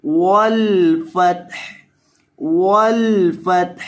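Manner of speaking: वल फतह with the लाम kept short and the final हा audible; short lam. Shown as a demonstration. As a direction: chant वल फतह slowly without stretching the lam. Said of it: "लाम को लंबा नहीं करना".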